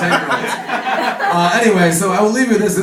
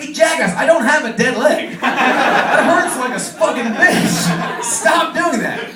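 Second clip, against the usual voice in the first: retold pained yell; 6 semitones higher, slower than usual. Guy punching his leg.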